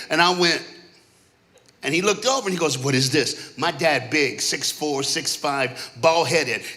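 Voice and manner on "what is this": lightly voiced stern father, low; a hint of a displeased dad. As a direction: ask it low, with restrained disapproval. Dad's first look, acted.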